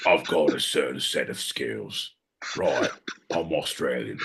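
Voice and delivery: bad Australian accent.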